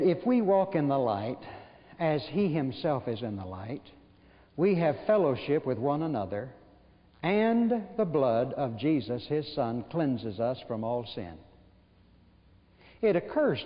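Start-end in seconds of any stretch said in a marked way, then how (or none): 0.0-11.3 scripture reading. Acted. Reads scripture aloud.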